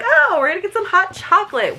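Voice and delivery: high-pitched, hammed-up hopeful cry; mock excitement. Reader retelling her hopes for cocoa, mock excitement.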